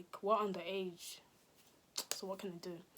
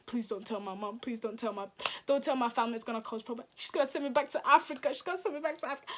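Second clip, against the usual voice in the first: pleading, building to panic; faster than usual. Retold or imitated. Begging police not to tell.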